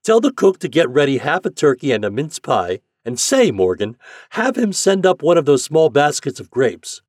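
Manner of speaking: high, loud, hearty commands; captain giving orders. A narrator's reading. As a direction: order the crew about with urgent goodwill.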